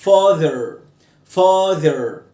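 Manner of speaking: father with "ther" dropped low; low ending. Shown as a demonstration. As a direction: stress FA in father and let the pitch fall. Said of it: "اعملها ستريس تحت".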